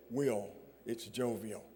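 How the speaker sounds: small, soft voice at the door; a quiet, timid voice through the door; lightly imitated small voice. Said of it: "a small voice said".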